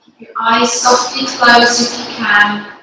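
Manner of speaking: calm, unhurried instruction with long pauses; guided yoga. Real, not acted. Yoga teacher leading parents and babies through breathing, guided yoga. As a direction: guide them gently through each breath, phrase by phrase.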